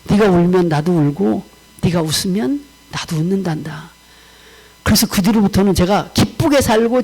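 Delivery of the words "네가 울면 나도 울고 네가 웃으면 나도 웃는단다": lightly voiced God, lower pitch; a hint of the Lord consoling; God speaking. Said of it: "주님이 그렇게 내 마음에 역사하시더라고".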